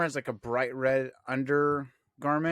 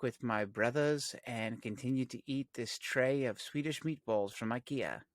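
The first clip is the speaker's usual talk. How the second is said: softer, measured character voice; Tech; 3 dB quieter than usual. Acted. Co-host as Tech choosing meatballs over romance, measured mock refusal. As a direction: decline politely, lightly voiced as a precise techie. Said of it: "What if Tech's completely aware and he's like".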